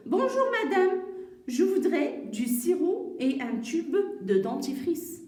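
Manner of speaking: projected customer greeting, starting high; dialogue reading. Acted. Mother ordering at the pharmacy, projected model reading. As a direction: read the mother's order clearly for learners. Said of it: "on va relire encore le dialogue".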